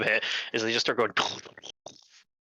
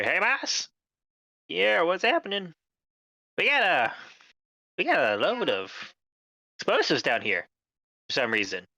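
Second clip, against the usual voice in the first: supervisor on the phone; 4 semitones higher than usual. Acted.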